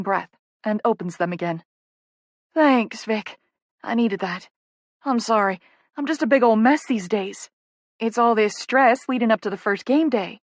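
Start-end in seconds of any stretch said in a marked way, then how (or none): 2.5-10.4 lightly voiced, frazzled Southern apology; apologetic Southern publicist. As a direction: admit sheepishly that stress has got to you. Poppy apologises to Vicky.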